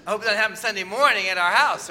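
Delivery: mock alarm. Preacher jokes loudly to congregation.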